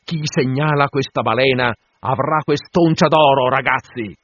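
loud, high proclamation to the crew; captain's rallying shout; full-voiced shout. A narrator's reading. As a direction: bellow the challenge so every sailor hears. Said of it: "gridando a piena voce".

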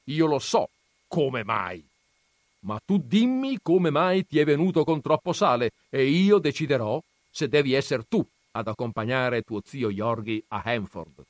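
un accenno di nonno autoritario, lento e deciso. Acted. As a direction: stabilisci tu le regole. Nonno decide chi parte. (nonno che decide al nipote, lento e autoritario)

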